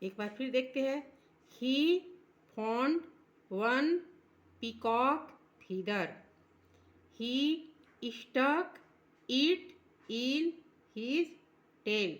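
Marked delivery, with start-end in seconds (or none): 1.5-12.1 slow, drawn-out recitation; slow poem reading. Shown as a demonstration. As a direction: read each word slowly for the class. Repeats poem reading slowly. (धीमा कविता पाठ)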